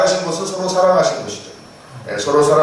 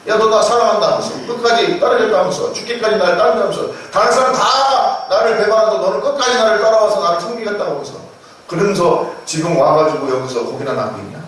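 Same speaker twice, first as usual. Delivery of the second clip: higher-pitched, reproachful rebuke of a let-down friend; mock scolding; 4 semitones higher than usual. Ordinary teacher rebuking Peter for failing him, a mock scolding. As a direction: scold him for broken promises. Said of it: "그렇게 책망했을 것 같아요".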